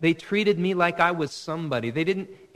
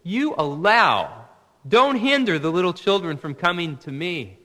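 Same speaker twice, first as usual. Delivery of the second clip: stern; 6 dB louder than usual. Retold or imitated. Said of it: "Very sternly, he says".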